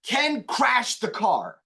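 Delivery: Ken hit hard and slow, the rest trailing off; stress on Ken. Shown as a demonstration. Teacher showing students which word to emphasize, Ken slow and punched. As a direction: lean on Ken, drawn out. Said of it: "same things you would do".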